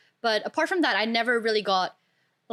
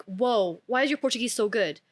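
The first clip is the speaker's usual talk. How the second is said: surprised; 4 semitones higher than usual. Retold or imitated. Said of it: "They always, always get surprised".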